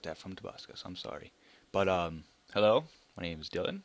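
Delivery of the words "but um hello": loud rising hello; loud hello with a lift; loud greeting. Real, not acted.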